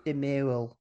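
"The mole" distorted to roughly "di meel"; mock pronunciation. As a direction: say "The mole" as an odd "di mee-ul". Plays on French for mole.

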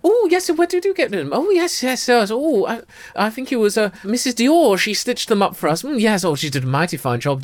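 high, gushing posh ladies; two giddy gossips swapping fashion boasts; gossiping twin sisters. Acted. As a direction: chatter like delighted society sisters.

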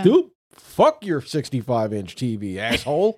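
hammed-up angry outburst; mock fit of anger. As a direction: play a furious daughter about to wreck something. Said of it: "just in a fit of anger".

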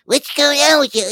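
high, loud fake-concerned dude; douchebag voice. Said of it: "one of those douchebags that's like".

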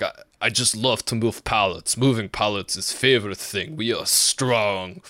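put-on light Russian accent, proud and simple; mock Russian accent. Imitating coworker Sergey who loves moving pallets, light Russian accent. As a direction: imitate a cheerful Siberian coworker. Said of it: "let me get my Russian".

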